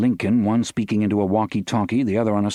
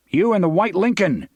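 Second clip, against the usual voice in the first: booming bullhorn voice; 10 semitones higher than usual. A narrator's reading. Guard calling to the car through a bullhorn, booming. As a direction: boom it out over a loudspeaker. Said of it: "came the booming voice".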